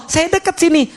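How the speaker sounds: high, gentle calling voice, set apart from the preaching; voice of a near God. Retold or imitated. The preacher voices God telling believers he is near. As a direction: speak as God promising he is close.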